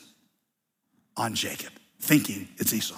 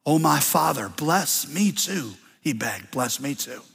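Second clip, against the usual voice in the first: begging; 2 semitones lower than usual. Acted. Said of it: "loud and bitter cry".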